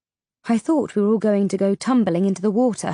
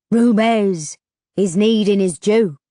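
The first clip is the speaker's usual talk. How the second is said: slow, croaking creature voice; croaked demand; 5 dB louder than usual. A narrator's reading. Ferryman demanding payment from travellers, croaking. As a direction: croak it out slowly. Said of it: "he croaked".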